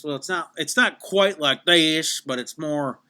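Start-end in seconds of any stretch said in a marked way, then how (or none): 0.6-2.2 slow, exaggerated Dakotas accent sample; demonstrating a regional Dakota accent slowly; slight Dakota accent. Shown as a demonstration. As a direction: stretch the vowels in a Dakota accent. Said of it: "even, like, the western part of".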